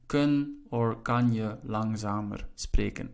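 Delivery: slow, slightly softened Dutch example; measured teaching pace; slow model sentence. Shown as a demonstration. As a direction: repeat the phrase slowly for learners. Teacher repeats Dutch phrase for learners.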